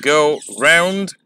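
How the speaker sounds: "Go round" separated, weight on "round"; light "Go", pause, stressed "round"; fourth iambic foot. Shown as a demonstration. Teacher isolating the fourth pair for students, stress on "round". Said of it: "ये fourth है".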